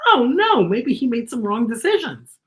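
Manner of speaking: high, anxious fretting; a little boy panicking over the baby; worried boy. Acted. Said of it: "and Aiden's worried".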